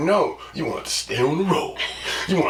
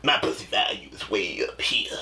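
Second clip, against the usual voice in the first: mock woman bragging; 9 semitones lower, 6 dB quieter than usual. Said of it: "You can't sit up here and be like".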